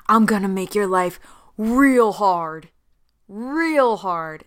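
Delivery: REAL HARD stretched out with weight; lightly acted warning, "real" drawn out; drawn-out threat. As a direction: lean long on each "real hard". Player character threatens villain.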